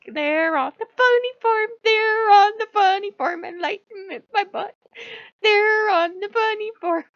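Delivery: high, jeering trickster voice; Loki. Acted. Loki ridiculing the enlightenment gurus, jeering. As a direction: taunt it high and loud, stretched out. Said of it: "Look, he's like".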